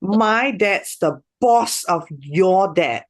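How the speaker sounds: slow, with boss and your punched; boastful, leaning on boss and your; catty taunt, boss stressed. Shown as a demonstration. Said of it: "Stressing on boss and your".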